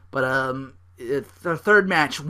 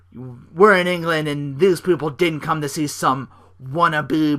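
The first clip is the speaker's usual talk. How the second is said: mock heel promo; 2 semitones higher, 5 dB louder than usual. Barrett taunting the American crowd, sneering and loud. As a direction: ham up a villain's promo to the crowd.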